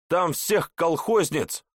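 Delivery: high, slow shouted jab; shouted taunt. A narrator's reading. Hawk shouts a last taunt as the portal closes. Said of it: "кричит ястреб".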